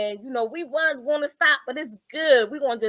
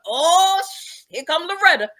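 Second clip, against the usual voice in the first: laughing relief; 7 semitones higher, 4 dB louder than usual. Retold or imitated. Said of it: "here go Duck".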